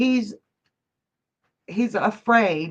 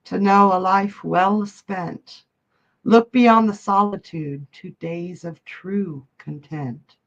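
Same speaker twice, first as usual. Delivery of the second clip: poem reading. Acted. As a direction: give each line its weight, like a eulogy. Reads a memorial poem aloud.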